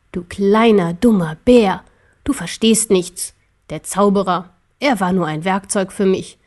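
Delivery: lightly voiced, contemptuous emperor; scornful emperor. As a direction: belittle the little bear with measured disdain. (leicht gespielter, verächtlicher Kaiser)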